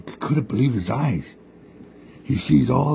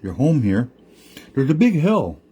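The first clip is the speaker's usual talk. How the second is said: higher, coaxing trickster voice; lightly raised sly coyote explaining; scheming Coyote; 5 semitones higher than usual. Acted. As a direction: lure them up the hill. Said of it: "Coyote said".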